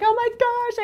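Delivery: high, thrilled "oh my gosh"; a high squeal of delight; amazed gasp. Retold or imitated. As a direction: gush it like a starstruck fan. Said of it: "And you guys will be like".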